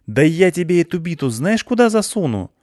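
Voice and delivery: high, loud raging threat; furious threat. A narrator's reading. Klyusya threatens the captor with her bat, raging.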